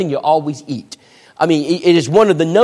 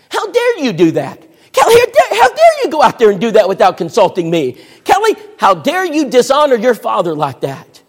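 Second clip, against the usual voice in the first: higher, louder scolding mother; angry mother; 3 semitones higher, 3 dB louder than usual. Retold or imitated. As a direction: berate her like an outraged mother. Mother berating daughter, acted quarrel.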